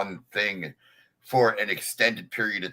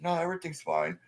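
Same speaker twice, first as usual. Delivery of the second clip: calm reassurance; 6 semitones higher, 7 dB quieter than usual. Retold or imitated. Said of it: "And I just go".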